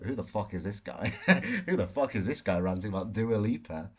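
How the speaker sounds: imitating the baffled hotel neighbour through laughter; baffled neighbour, half laughing. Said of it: "whoever's next to me in this hotel is like".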